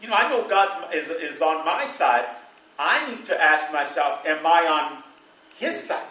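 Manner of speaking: rising preacher emphasis. Acted. Preaching building to climax.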